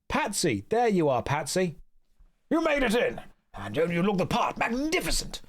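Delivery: high, gushing society friend; high flamboyant voice. Acted. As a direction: greet your friend, high and delighted. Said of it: "I'm gonna do the voices for every character".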